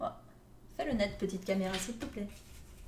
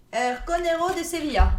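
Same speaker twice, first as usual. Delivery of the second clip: a light put-on Spanish accent, a bit louder; 3 semitones higher, 4 dB louder than usual. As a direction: try a Spanish accent on the team name, half-convinced. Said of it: "J'essaie de prendre l'accent". (avec un léger accent espagnol)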